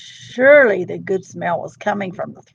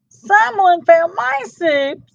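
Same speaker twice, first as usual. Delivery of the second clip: much higher, slow and squeaky; little Baby Bear upset; 11 semitones higher, 5 dB louder, slower than usual. Acted. Baby Bear finds her soup gone, squeaky. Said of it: "in her high, squeaky voice".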